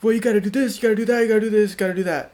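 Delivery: high, loud nagging dad voice; imitating dad nagging. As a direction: rattle off dad's orders, pushy and loud. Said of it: "And he was, like, telling me".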